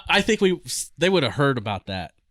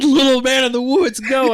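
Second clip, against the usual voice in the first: higher, louder drill call; shouted command; 11 semitones higher, 7 dB louder than usual. Retold or imitated. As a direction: call it out across the barracks. Drill sergeant calling out command.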